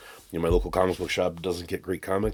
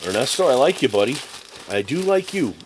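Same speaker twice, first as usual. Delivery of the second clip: excited praise; 3 semitones higher, 4 dB louder than usual. Real, not acted. Praising seller warmly.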